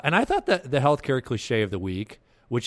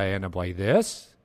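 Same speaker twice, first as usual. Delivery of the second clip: THIS swung up and louder at the close; emphatic ending; 4 dB louder than usual. Shown as a demonstration. Host showing their own annoying habit, rising stressed ending. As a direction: push the last word THIS upward. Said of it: "they emphasize at the end".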